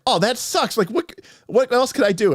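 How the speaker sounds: high put-upon whine; mock dismay. Wizard player hearing about spell failure, high mock dismay. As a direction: sound crestfallen and a bit helpless. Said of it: "And he's like".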